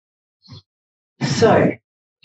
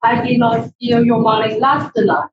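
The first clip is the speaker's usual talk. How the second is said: shouted denial. Shown as a demonstration. Speaker shouts the line at the audience as an outraged denial. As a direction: bellow the denial back at the room. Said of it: "Something else again".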